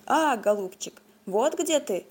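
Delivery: lightly voiced squeaking beak; a hint of a piping bird; squeaky bird beak voice. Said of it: "запищал птичий нос".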